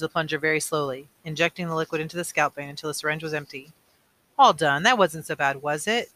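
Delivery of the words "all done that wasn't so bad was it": cheerful. Acted. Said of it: "Jonas heard his father say cheerfully".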